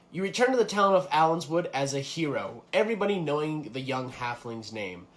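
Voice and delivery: storyteller setting a fantasy scene; game master narration. Acted. Game master improvises player's ending, storytelling delivery. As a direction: narrate the hero's return for the player.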